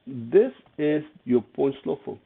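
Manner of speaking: slow, deliberate stress on "this is your point slope form"; "this is your point slope form" spaced out for emphasis; emphatic. Real, not acted. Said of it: "I'm making a big emphasis on this".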